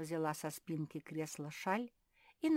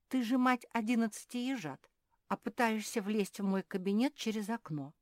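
raised, louder voice of astonishment; amazed; 6 semitones higher, 6 dB louder than usual. A narrator's reading. Софи questions a hedgehog mother climbing through windows, amazed. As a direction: remonstrate in amazement, pitched up. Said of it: "изумилась Софи".

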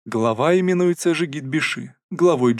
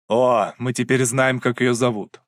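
contemptuous snort. Acted. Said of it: "презрительно фыркнула Надира".

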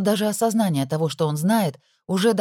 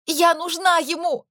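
much higher, slow desperate cry; 12 semitones higher, slower than usual. Acted. Daughter shouting at her mother, high slow cry. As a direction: throw the words out in despair. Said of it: "выкрикнула я".

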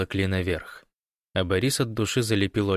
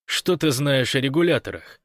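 higher-pitched puzzled question; raised, surprised voice; sincere surprise; 6 semitones higher, 4 dB louder than usual. A narrator's reading. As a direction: ask in honest astonishment. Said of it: "искренне удивился Гош".

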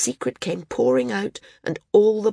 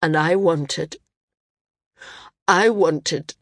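voice breaking; slower than usual. A narrator's reading. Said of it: "his voice broke".

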